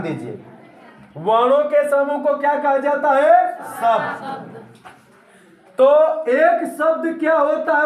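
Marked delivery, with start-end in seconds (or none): 3.6-4.6 whispered answer. Shown as a demonstration. Teacher supplies the answer.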